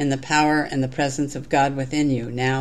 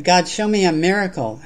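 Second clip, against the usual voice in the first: lightly raised plea, read aloud; mild shout; 3 semitones higher, 4 dB louder than usual. Acted. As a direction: call to God with modest lift, as in a recited poem. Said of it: "I shouted".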